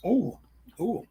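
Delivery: talking while slurping wine; sucking air through the wine; slurping wine tasting. Real, not acted. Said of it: "doing that supposedly aerates the wine".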